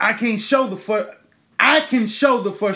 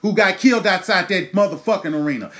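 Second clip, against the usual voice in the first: louder, furious demand for action; angry shout; 3 dB louder than usual. Real, not acted. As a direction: yell it like a call to arms. Ranting demand for justice.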